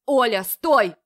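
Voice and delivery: man shouting after the sister; rough shout. A narrator's reading. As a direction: stop her in the street. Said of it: "грубо кричит Марат".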